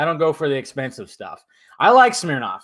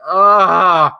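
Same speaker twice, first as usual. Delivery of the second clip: retold exasperated groan; 4 semitones higher, 7 dB louder than usual. Acted groan at disappointing film.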